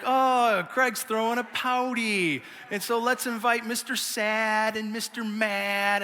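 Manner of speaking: slow teasing imitation of dad; lightly mock his father's playful teasing. A son imitates his dad teasing his pouting kid, slow and playful. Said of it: "He's like".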